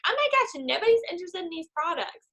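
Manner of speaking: high-pitched overblown dismay; mock panic. Discouraged seller doubting the products, mock panic. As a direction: wail it as a hammed-up catastrophe. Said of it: "then you get this mentality".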